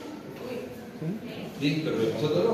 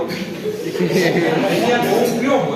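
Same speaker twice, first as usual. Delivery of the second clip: laughing; 4 dB louder, much slower than usual. Real, not acted. Laughing retelling odd treatment.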